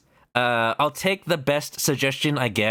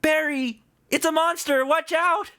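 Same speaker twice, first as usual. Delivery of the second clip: much higher, hammed-up panic; mock alarm; 14 semitones higher than usual. Streamer pretending panic at a monster, hammed-up. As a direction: yelp a jokey warning.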